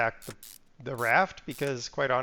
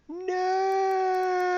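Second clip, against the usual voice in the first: shout of no. Real, not acted. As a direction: cry out in protest. Reacting to game problem.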